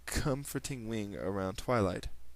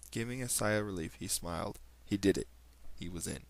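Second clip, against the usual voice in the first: put-on Australian accent. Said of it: "reading this story with my Australian accent".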